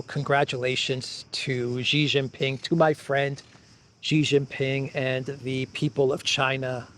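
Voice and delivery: soft, sincere made-up congratulations; mock friendly message. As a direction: read it like a gracious note to a friend. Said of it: "I just made that up right now".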